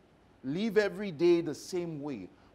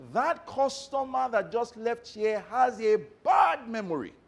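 raised, indignant voice; loud complaint; 6 semitones higher, 5 dB louder than usual. Retold or imitated. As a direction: complain loudly about him. Lady complaining loudly to security.

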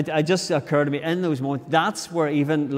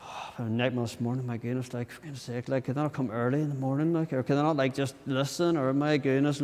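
grumbling aside, complaint; 6 dB quieter than usual. Acted. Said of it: "you walk away to somebody else".

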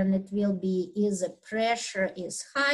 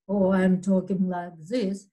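dropped a little lower to contrast; a slightly lower, plain contrast take; low pitch demo; 2 semitones lower than usual. Shown as a demonstration. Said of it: "That will be a different pitch".

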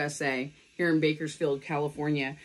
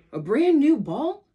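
higher and louder, thrilled question; excited shout; 6 semitones higher, 6 dB louder than usual. Acted. Charlie Brown shouts at Lucy about the new ball, thrilled. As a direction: shout it out with delight. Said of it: "Charlie Brown shouts".

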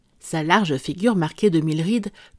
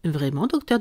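good-natured; 2 semitones lower than usual. Acted. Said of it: "d'un ton débonnaire".

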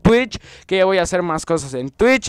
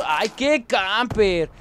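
mocking camper call; 3 semitones higher, much slower than usual. Real, not acted.

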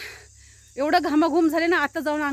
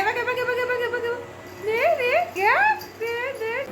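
high excited squeals of बघा; excited calling; 8 semitones higher, slower than usual. Real, not acted. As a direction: squeal with delight. (उंच आवाजात उत्साहाने ओरडणं)

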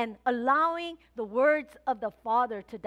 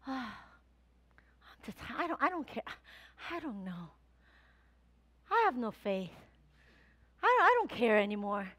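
soft, deflated, giving-up voice; apathetic mumble; 2 semitones lower, 4 dB quieter than usual. Retold or imitated. Pastor imitating her discouraged self, soft and deflated. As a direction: sound like you've stopped caring. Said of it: "I'm like".

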